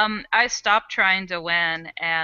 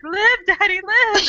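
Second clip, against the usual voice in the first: urgent cheering; 11 semitones higher, 5 dB louder than usual. Retold or imitated. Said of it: "just try to keep my daddy".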